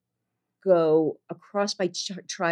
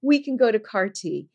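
higher-pitched, eager doctor pitch; very enthusiastic; 6 semitones higher than usual. Retold or imitated. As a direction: imitate a doctor keen on the next step. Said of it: "he's very enthusiastic".

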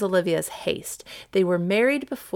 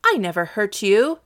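firm, emphatic denial; very positive; 4 dB louder than usual. Acted. Viola to her bleeding accuser, very positively. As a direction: insist on innocence. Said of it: "said Viola very positively".

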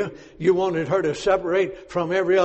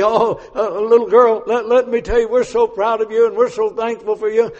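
mock condescension; 4 semitones higher, 6 dB louder than usual. Mock voicing Naaman's wife.

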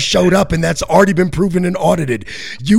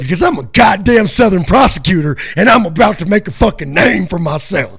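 Southern prosecutor swagger. Pretend.

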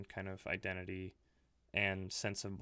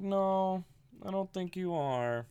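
higher, louder flat-out refusal; mock dismissive local; 9 semitones higher, 4 dB louder, slower than usual. Local telling the German coworker he isn't American, higher mock dismissal. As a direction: brush him off, voiced well above normal. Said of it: "It's like".

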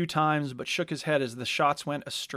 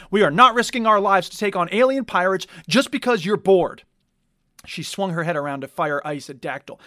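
loud furious order; angry shout; 3 semitones higher, 8 dB louder than usual. Acted. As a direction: tear into him. Captain yells at crew.

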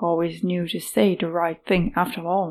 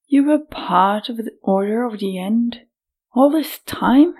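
whispered shock rising at the end; shocked disbelief; 3 semitones higher than usual. Acted. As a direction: gasp it out in disbelief. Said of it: "Neda sprang up".

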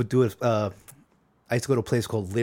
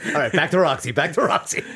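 laughing through the words, higher and louder; giggly redirect; 6 semitones higher, 6 dB louder than usual. Real, not acted. Laughing, steering back to topic.

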